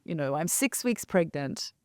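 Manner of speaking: soft, hushed self-questioning; despairing inner thought. Retold or imitated. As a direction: ask yourself quietly, lost. Inner thought, lonely moment.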